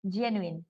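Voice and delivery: "Genuine" said low, with a j sound; soft g. Shown as a demonstration. Teacher repeating which G is meant here, low soft-g example. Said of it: "that G here".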